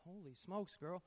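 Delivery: high, loud exasperated protest; incredulous, drawn-out complaint to a girlfriend; retold exasperation. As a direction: play up being fed up, voice jumping up and stretching the words. Acted exasperation at girlfriend's repeated asking.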